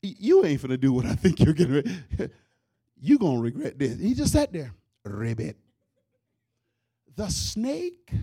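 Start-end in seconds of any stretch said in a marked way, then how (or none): 0.0-4.0 low, tough little frog warning the snake; cocky frog voice. Acted. Comedian voicing the frog warning the snake, low and cocky. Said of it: "the frog was sitting there like". 5.0-5.6 deep comic ribbit; low frog croak. Acted. The frog croaking at the snake, low and smug.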